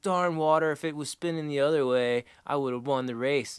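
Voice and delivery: a hint of a sulky cartoon boy; Bart impression. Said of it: "he's like".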